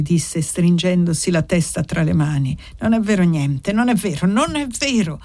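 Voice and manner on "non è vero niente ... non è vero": understated angry outburst, not shouted; a mild, restrained cry of denial, beside himself. Acted. Paolo denying Anna's words, beside himself, a restrained angry cry. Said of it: "gridò poi come fuori di sé rabbiosamente".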